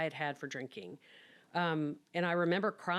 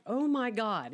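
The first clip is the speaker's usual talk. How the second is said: much higher, awed oh my God; starstruck; 6 semitones higher, 3 dB louder than usual. Retold or imitated. Reacting to Mike joining her case, starstruck and higher. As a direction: gush like a starstruck fan. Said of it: "And I'm like".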